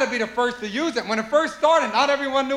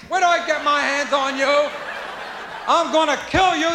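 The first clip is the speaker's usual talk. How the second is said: threatening mother; 3 semitones higher than usual. Acted. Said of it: "You mothers come after us".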